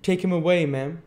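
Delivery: loud, high, pompous command; imperious order. A narrator's reading. Bumble ordering Missus Mann to remove Dick, imperious. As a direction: order it like an outraged official. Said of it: "said Mister Bumble imperiously".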